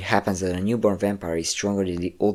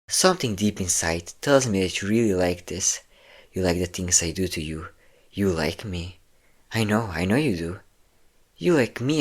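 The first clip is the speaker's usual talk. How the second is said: menacing captor. Acted. Captor taunts the prisoner, menacing and controlling. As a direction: toy with the captive, cold and in command.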